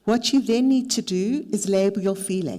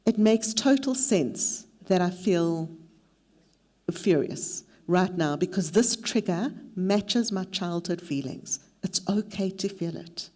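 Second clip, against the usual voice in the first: slow, gentle and kind, as if soothing yourself; warm self-talk. Shown as a demonstration. Therapist modelling kind self-talk for a triggered client, slow and gentle. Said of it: "Then speak to yourself with warmth".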